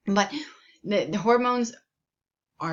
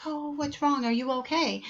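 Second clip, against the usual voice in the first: acted concern; 7 semitones higher than usual. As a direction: check on a crying patient, acted. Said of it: "they're crying and you're like".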